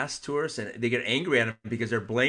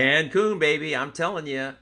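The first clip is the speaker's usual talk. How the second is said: excited pitch; 5 semitones higher, 4 dB louder than usual. Real, not acted. Excited travel suggestion.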